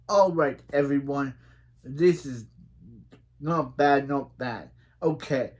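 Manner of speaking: lightly put-on British coach; British accent. Reading the coach's tryout announcement aloud, mock British accent. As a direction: attempt a British accent, measured delivery. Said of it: "do my good British accent".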